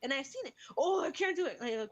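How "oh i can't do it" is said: high mock-helpless whine; whining child imitation. Pupil tells teacher it's impossible, whining. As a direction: complain like a kid giving up.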